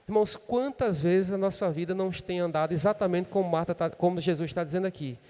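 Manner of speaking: usual speaking voice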